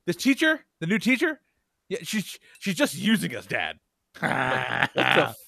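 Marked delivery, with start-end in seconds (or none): 0.1-3.8 put-on higher, whiny kid voice; kid complaining. Son complains to his dad about the new teacher. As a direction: play the aggrieved son. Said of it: "And he's like".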